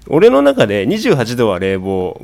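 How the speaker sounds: 二十八度 said slowly and loudly, stressed as the cooling setting; slow emphatic contrast. Shown as a demonstration. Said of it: "この一度の差は". (二十八度をゆっくり強調して)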